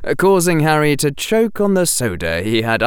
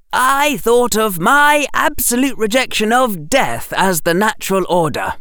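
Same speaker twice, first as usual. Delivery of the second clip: lightly voiced earnest boy explaining himself; young Harry, thoughtful; Harry's voice; 12 semitones higher than usual.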